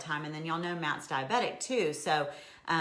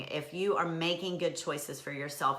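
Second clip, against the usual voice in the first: ordinary talk, nothing marked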